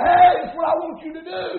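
forceful military command; commander shouting orders. Acted. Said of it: "he's shouting out".

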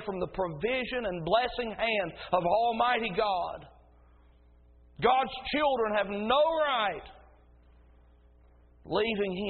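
driving, emphatic pulpit delivery; fervent preaching. Real, not acted. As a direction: build steadily to a forceful declaration. Preaching at full force.

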